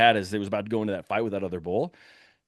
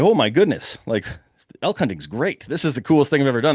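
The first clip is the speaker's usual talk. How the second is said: loud, fast thrilled gush; excited; 3 semitones higher, 4 dB louder than usual. Retold or imitated. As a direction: blurt it out in delight. Second bull appears, thrilled.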